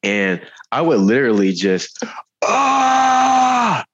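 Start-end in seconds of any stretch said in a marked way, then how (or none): 2.4-3.9 loud, high burst of a yell in a quiet class; sudden shout. Retold or imitated. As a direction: let out a wild yell of pent-up energy. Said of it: "supposed to be quiet".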